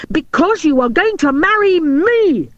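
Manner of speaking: high, loud insistent shout. A narrator's reading. Robin shouting his proposal at Maria. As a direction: bang it out like a command. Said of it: "he shouted".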